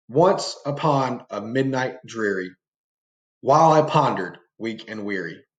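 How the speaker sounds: gloomy emphasis, the voice sinking on "weak and weary"; dark and gloomy reading. Shown as a demonstration. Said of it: "I'm putting emphasis on certain words".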